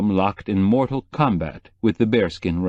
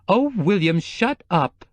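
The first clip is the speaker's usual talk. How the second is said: snapped; 11 semitones higher, slower than usual. A narrator's reading. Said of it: "Joy snapped".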